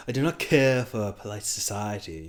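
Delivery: imitating a film bad boy's British accent; lightly hammed-up British suitor; put-on British accent. Bad boy at Bella's window, in a put-on British accent.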